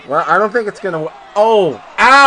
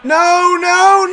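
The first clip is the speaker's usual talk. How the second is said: dismayed shout; 11 semitones higher, much slower than usual. Real, not acted. Losing bet in wrestling pool.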